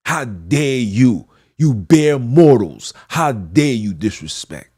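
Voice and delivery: outraged preacher's rebuke; indignant rebuke. Real, not acted. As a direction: thunder down at bare mortals. Rebuking blasphemers.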